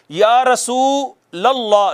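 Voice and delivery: या रसूलल्लाह with a full, heavy लाम, drawn out; slow demo of या रसूलल्लाह, the lam thick. Shown as a demonstration. Teacher showing students the heavy lam, drawn out slowly. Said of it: "कैसे?".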